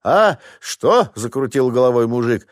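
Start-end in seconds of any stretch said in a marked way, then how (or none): 0.0-1.1 short, high confused questions; husband startled by the crash. Acted. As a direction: jerk your head round, caught off guard. Startled husband looks round.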